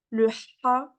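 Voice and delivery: "ha" with long throat friction; Arabic-only ha. Shown as a demonstration. Teacher presenting an Arabic-only sound, "ha" strongly rasped. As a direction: squeeze the throat and rasp "ha". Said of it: "elle est qu'en arabe".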